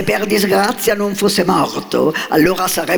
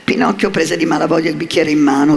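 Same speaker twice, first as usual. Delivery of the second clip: usual speaking voice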